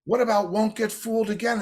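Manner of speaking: a hint of a fan pressing his point; mock challenge. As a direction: guitarist lightly voiced, insisting. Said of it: "Godfrey says".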